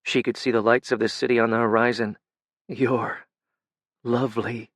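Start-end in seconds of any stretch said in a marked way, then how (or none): 2.7-4.7 sniffling. A narrator's reading. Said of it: "he sniffed".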